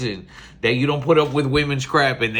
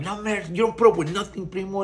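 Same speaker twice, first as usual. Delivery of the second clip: retold big talk in a raised pitch; talking smack; 6 semitones higher than usual. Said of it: "I'm there talking smack the whole time".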